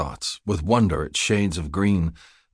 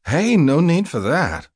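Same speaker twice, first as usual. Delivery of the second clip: higher-pitched call to a stranger; 10 semitones higher, 4 dB louder than usual. A narrator's reading. Wanda calls to woman aiming a shotgun at her, calling out. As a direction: call out to halt a threat. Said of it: "Wanda called".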